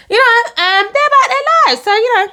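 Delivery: put-on high, impressed girlish voice; high awed murmur; starry-eyed aside. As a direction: sound dazzled by the big men. Repeats the awed thought.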